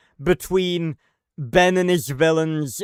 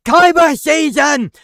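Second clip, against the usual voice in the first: much higher and louder, a shrill cartoon taunt; mocking cartoon squeal; 10 semitones higher, 9 dB louder than usual. Mocking the fight scene with a loud high cartoon voice. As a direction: squeal it like a goofy cartoon bit. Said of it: "they literally go".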